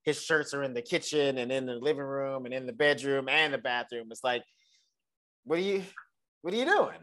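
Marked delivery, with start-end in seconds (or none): 5.4-7.0 higher-pitched, halting exasperated question; mock disbelief. Host confronting the messy boyfriend over shirts everywhere, mock disbelief. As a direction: break off, then ask it higher, baffled.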